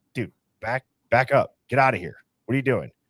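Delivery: put-on nice yet annoyed tone. Speaker retells a cop talking to a man, imitating a cop's nice annoyance. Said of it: "he's nicely telling Hunter".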